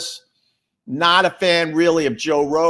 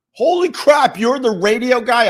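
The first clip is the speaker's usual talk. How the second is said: 1 starstruck guests; 11 semitones higher, 8 dB louder than usual. Retold or imitated. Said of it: "I heard that all weekend long".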